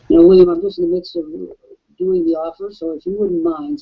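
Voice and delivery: hoarse, worn-out voice; raspy voice. Real, not acted. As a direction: speak with a scratchy throat. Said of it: "since I have a raspy voice".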